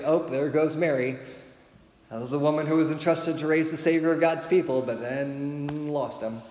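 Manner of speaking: mock-scandalized gossip, dragging out the ending; sarcastic gossip. Gossips talking about Mary, sarcastic. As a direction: pass it on like juicy gossip. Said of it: "Obviously, I'm being sarcastic with that".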